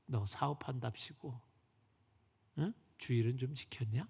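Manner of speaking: a hint of a father's rebuke; God scolding. God scolding the businessman about Sabbath, lightly stern. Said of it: "하나님께서 그에게 이르시더래".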